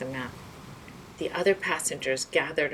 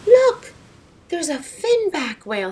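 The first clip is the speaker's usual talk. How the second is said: much higher, much louder shout; 11 semitones higher, 10 dB louder than usual. Acted. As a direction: burst out pointing at the whale. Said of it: "let out a shout".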